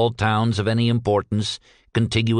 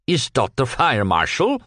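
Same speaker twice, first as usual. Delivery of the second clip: put-on flustered Yiddish accent; 2 semitones higher than usual. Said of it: "he managed to articulate".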